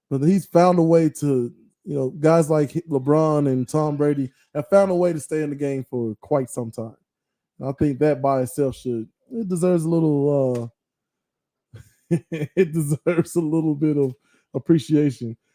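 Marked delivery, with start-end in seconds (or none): 12.3-15.3 laughing while talking, laughing through the words. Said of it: "Sorry, I'm laughing".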